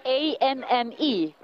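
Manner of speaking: A N N E spelled letter by letter; spelling it out. Real, not acted. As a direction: spell out A N N E one letter at a time. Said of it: "And spell that for me, please".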